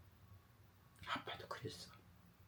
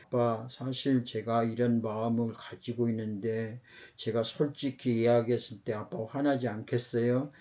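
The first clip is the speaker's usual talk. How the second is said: put-on softer, hesitant child confessing to dad; anxious child; 3 semitones lower, 3 dB quieter than usual. Teen nervously asking dad not to get angry, softly hesitant. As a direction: quietly voice a worried teen afraid of anger. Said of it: "노심초사하는".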